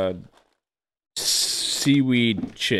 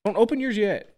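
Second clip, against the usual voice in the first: loud sharp voice; 8 semitones higher, 3 dB quieter than usual. Real, not acted. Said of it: "Why are you screaming at me?".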